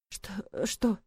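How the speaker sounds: soft halting stammer. A narrator's reading. Frightened sister answering her brother, quiet stammer. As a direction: stumble over the words. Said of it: "запинаюсь я".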